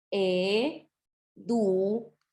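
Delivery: "Educación" very slow, e-du-ca-ción; split into slow syllables. Shown as a demonstration. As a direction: count out the four syllables of "Educación" slowly. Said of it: "Fíjense que tiene cuatro sílabas". ("Educación" muy lento, en cuatro sílabas)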